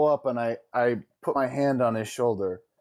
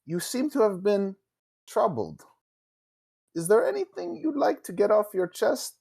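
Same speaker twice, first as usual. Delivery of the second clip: a lightly raised, measured noble tone; different tone; 4 semitones higher than usual. Acted. Player comforting the pouty NPC, lightly raised gentle tone. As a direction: speak up higher and carefully, offering kindness. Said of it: "in a different tone".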